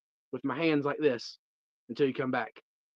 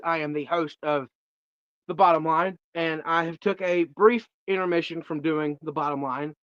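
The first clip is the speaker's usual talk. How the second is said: ordinary delivery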